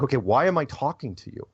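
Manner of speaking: a touch of mock annoyance; mildly angry imitation. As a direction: imitate an irritated interviewer, mildly. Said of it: "she was getting angry with me".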